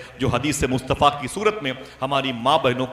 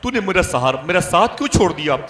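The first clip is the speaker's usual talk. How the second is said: raised-pitch lament of a widow; acted-out grieving reproach; retold anguished cry; 4 semitones higher, 4 dB louder than usual. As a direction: cry out to the lost husband, in a preacher's retelling. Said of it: "चीखती रही, तड़पती रही".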